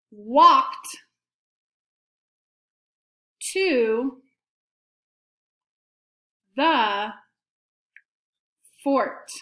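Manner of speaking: very slow, long pauses between words; slow dictation. Shown as a demonstration. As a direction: give pupils time to write after each word. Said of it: "say it again slowly".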